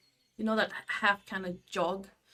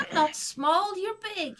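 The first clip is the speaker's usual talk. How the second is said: high, indignant little creature; squeaky small creature protesting; tiny creature voice; 10 semitones higher than usual. Acted. Creature talking back.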